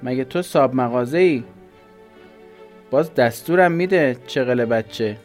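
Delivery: angry. A narrator's reading. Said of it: "به عصبانیت به من نگاه کرد و گفت".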